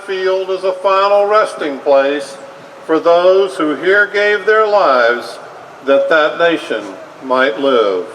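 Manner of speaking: measured, solemn oratory, phrase by phrase; formal speech. Acted. President dedicating a battlefield cemetery, solemn formal oration. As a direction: deliver it like a president at a graveside. Recites the Gettysburg Address.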